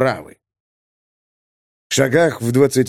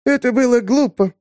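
scornful; 10 semitones higher than usual. Acted. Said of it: "сказала Огла Гуш".

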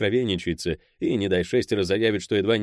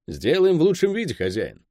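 high, eager yes-boss reply; hasty compliance; 7 semitones higher than usual. A narrator's reading. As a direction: jump in obligingly before the partner can speak. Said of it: "опередил товарища".

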